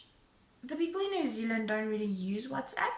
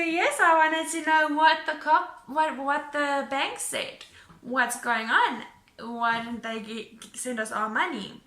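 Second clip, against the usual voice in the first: higher, louder, demanding answers; angry retold; 3 semitones higher, 6 dB louder than usual. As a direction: demand it back, heated. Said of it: "this is where I get really angry".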